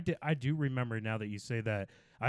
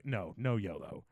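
slow, soft imitated dismissal; deadpan refusal; 3 semitones lower, 5 dB quieter than usual. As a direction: shut it down quietly, without any enthusiasm. Imitates actor rejecting the slogan.

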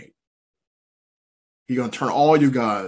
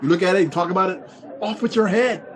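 mock threat; 5 semitones higher than usual. Threat to anyone looking at alien.

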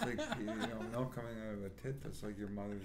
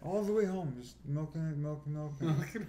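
laughing; 5 semitones higher, 4 dB louder than usual. Real, not acted. Laughing while recounting backseat groping.

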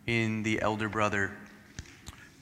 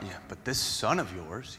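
condescending; 2 semitones lower, 6 dB quieter than usual. Retold or imitated. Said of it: "kind of this condescending tone to his father".

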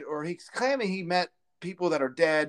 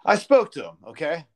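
mock Biden; 4 dB louder than usual. Mocking Biden's quote.

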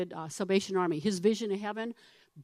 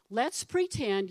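slow invitation; slower than usual. Real, not acted.

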